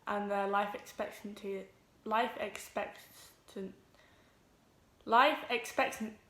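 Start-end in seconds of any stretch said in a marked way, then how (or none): 2.0-3.7 "life expectant" drawn out slowly, losing the ending; stumbling pronunciation. Real, not acted. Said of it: "oh, I can't say it". 5.1-6.2 "life expectant" attempted afresh, breaking off at the end; stumbling pronunciation. Real, not acted. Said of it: "oh, I can't say it".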